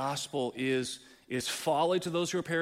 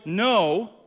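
loud, indignant pushback; defiant refusal; 5 semitones higher, 8 dB louder than usual. Retold or imitated. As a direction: snap back at God. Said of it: "and we go".

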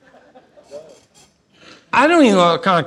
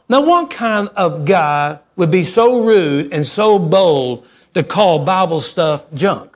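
mock indignation; slower than usual. Retold indignant thought.

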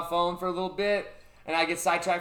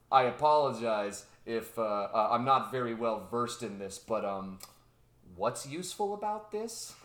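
timid scientist; 6 semitones lower, 4 dB quieter than usual. Retold or imitated. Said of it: "the scientist pops in and he's like".

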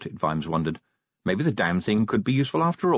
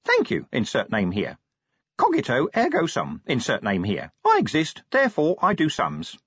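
imp voice; 4 semitones higher than usual. Acted. Imp speaking.

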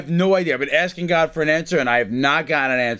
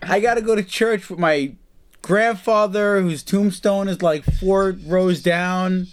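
high, drawn-out hemming and hawing; whiny mock excuse, pitched up; reluctant excuse-making; 4 semitones higher, slower than usual. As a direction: stall with a lame mock excuse, dragging the words out. Acting out flimsy excuses for dates.

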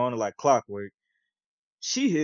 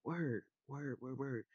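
noncommittal; 14 dB quieter, slower than usual. Retold or imitated. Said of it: "So I was like".

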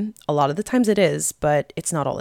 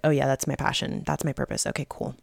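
mock-casual shrug, lower and softer toward the end; offhand acceptance; 3 semitones lower, 4 dB quieter, faster than usual. Imagining someone who just keeps their purpose to themselves, offhand. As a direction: toss it off as no big deal. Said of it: "keep it and be like".

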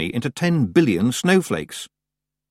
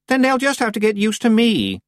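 put-on much higher self-important young witch; haughty Anagramma, dismissive; 13 semitones higher, 4 dB louder than usual. A narrator's reading. Anagramma answering Tiffany's doubts, haughty. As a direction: brush the objection aside grandly.

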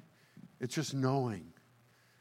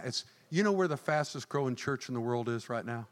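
ordinary talk, nothing marked

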